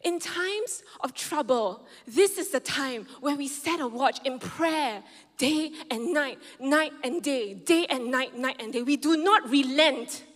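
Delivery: slow, building preacher's cadence; preaching build. Acted. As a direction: drive it home slowly and firmly. Preaching climax.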